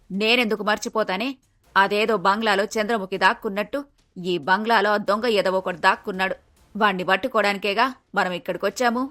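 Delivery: low mother-in-law voice, mildly indignant; Sooramma, indignant retort. Acted. (తగ్గు స్వరంలో అత్తయ్య ఎదురు జవాబు)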